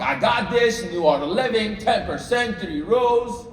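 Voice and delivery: high, cocky new-recruit boast; King Kong confidence. Acted. New recruits feeling like King Kong, high and cocky. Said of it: "you all feel like King Kong".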